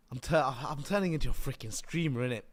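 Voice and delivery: streamer roadman voice; playful London slang; London street accent. Acted. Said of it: "Why am I even talking like this?".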